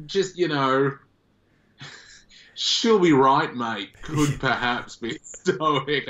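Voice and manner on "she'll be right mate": slow, drawn-out broad Australian "She'll be right, mate"; a laid-back Australian drawl; broad Aussie accent. Retold or imitated. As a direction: lay the Australian accent on thick and easy. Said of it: "kinda accent".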